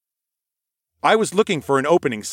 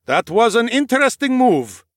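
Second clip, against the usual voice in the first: higher, louder, intrigued noble; intrigued knight; 10 semitones higher, 4 dB louder than usual. Acted. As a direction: sound impressed and curious. Nikolaus voiced in story.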